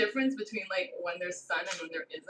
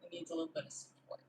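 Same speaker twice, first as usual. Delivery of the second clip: soft; 10 semitones higher, 10 dB quieter, faster than usual. Real, not acted. Slice toppling over.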